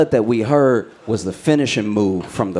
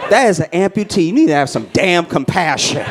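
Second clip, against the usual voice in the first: a hint of a stern grandma, pitched up; scolding grandma; 7 semitones higher than usual. Grandma pulling him into the next aisle, mock scolding. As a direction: scold the boy like an embarrassed grandmother. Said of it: "She was like".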